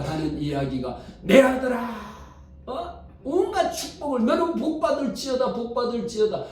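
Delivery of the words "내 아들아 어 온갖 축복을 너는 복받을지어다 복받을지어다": gushing mother's blessing. Retold or imitated.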